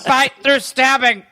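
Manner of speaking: lightly voiced dogged messenger; mock-struggle to deliver the message, phrase by phrase; halting, hammed-up messenger; telegram guy. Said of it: "the telegram guy was like".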